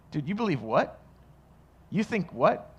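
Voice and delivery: swooping up in disbelief on "what"; mock a sceptic's astonished questioning; incredulous challenger. Acting out people challenging the believer.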